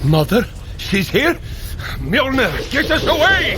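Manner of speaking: a comic fright at the thought of Mother; mock panic. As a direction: yelp for the hammer to get you out. Panics that Mother has arrived.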